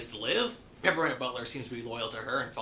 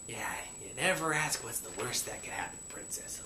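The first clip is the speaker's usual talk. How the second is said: hushed, half-whispered comment; very soft, breathy grumble; muttered aside; 4 semitones lower, 7 dB quieter than usual. Real, not acted. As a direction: mutter it under your breath to the character.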